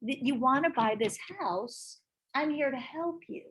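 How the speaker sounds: soft, gentle reassurance; reassuring. Shown as a demonstration. Agent soothing a nervous buyer, soft and reassuring. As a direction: soothe them like a worried child. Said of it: "hold their hand and say".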